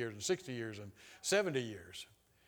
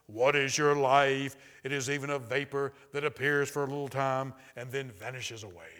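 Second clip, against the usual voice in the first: very deep voice; 5 dB louder than usual. Retold or imitated. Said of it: "it said in a very deep voice".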